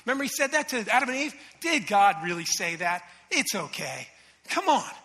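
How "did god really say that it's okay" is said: low, slow voice of the deceiver; insinuating tempter. Acted. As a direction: sow doubt with a lowered, drawn-out voice. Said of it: "The enemy whispers these things".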